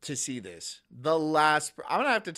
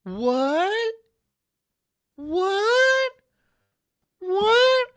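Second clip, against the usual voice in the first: much higher, louder indignant yelling; outraged shout; 9 dB louder, slower than usual. Real, not acted. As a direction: blow up in disbelief at the insult. Outraged at being mocked.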